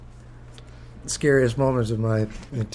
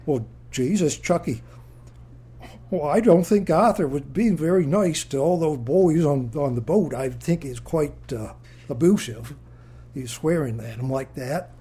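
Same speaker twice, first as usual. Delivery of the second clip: lightly voiced old mother, fretting; a hint of a worried Maine mother; imitating his mother; 3 semitones higher than usual. Mother fretting to her son about the swearing, lightly voiced. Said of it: "She said".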